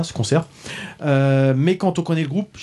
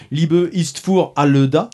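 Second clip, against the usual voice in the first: slow German title in a French speaker's German accent; own German accent; slower than usual. Shown as a demonstration. Reviewer tries the album title in his own German accent, slowly. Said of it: "avec mon accent allemand à moi".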